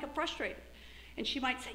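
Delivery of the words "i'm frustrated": softer, settled "I'm frustrated" with a falling end; name it and let it go, quieter; calmer naming. Retold or imitated. After naming it, she says it calmer and softer. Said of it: "I'm not so frustrated 'cause I'm, like".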